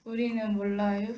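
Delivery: unhurried Chungcheong dialect 우리는 몰라요 with a gentle ending; 충청도 사투리로 느긋하게. Pretend. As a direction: say it the Chungcheong way, easy and drawn. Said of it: "충청도 버전으로 우리는 모른다를 한번".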